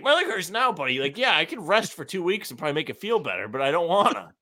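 complaining patient half-laughing at the end; mock indignant patient. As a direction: act out a petulant protest to the receptionist. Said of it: "yeah, like".

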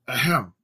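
short throat-clearing ahem; fake cough. A narrator's reading. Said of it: "coughed Jake".

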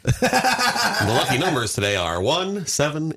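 slow lottery-numbers read; drawn-out recorded-message parody; mock hotline announcer.

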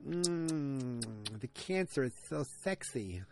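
long "mm", then softly put-on sultry smoker; pretend Virginia Slim smoker. Joking as someone smoking a Virginia Slim, mock sultry. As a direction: play at savouring a classy cigarette. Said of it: "that was me smoking a Virginia Slim".

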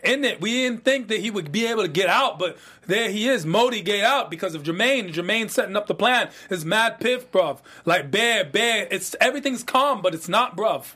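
reviews the plot in a hammed-up London roadman accent; put-on London roadman accent. Cohost recaps the plot in a put-on London roadman accent. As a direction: keep up the London roadman slang. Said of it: "this accent you're giving me".

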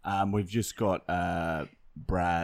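lightly put-on cop reporting in; police constable act. Prankster posing as Constable Anderson on the phone, official manner.

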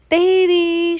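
loud, high, drawn-out call; calling shout. A narrator's reading. Woman searching for missing sister, shouting. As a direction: holler for someone out of sight. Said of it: "shouted Eugenia".

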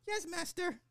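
very high, fast servile robot voice; sexy robot voice. Pretend. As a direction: purr like an eager robot servant. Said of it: "the sexy robot voice".

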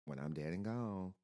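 a touch of great-grandma's country voice; little country voice. Retold or imitated. Remembering great-grandma's saying, lightly in her country voice. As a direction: softly echo grandma's old line. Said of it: "her little country voice".

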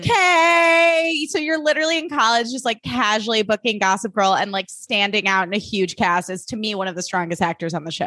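high, bright-eyed gushing start that settles down; gushing high praise. Retold or imitated. Gushing to the young actor, starting high and excited. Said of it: "I'm like".

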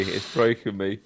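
high giggling, gasping between words; catching breath midword. Real, not acted.

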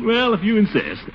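high, pleased fake reluctance; mock reluctant. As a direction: pretend to give in, delighted. Feigned reluctance, delighted.

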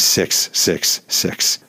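slow, breathy spooky delivery; slow spooky whisper; ominous whisper. Acted. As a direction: linger on the devil's number. Ominous devil number.

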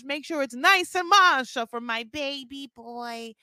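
slow, high cooing to a grown son; doting mom's baby voice, slow and sing-song; baby talk. Retold or imitated. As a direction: coo it like he's a toddler. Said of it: "Donna's like".

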